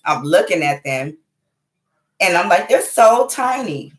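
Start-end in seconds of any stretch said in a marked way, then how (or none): 2.7-3.9 high, drawn-out cooing wonder; tender amazement. Retold or imitated. Mother looking at kids in each arm, amazed. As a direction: marvel slowly at tiny little children. Marvels at her tiny kids.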